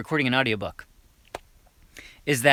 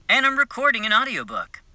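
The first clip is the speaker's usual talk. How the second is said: playback of mock read; 4 semitones higher than usual. Shown as a demonstration. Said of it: "I'll play it back for you guys".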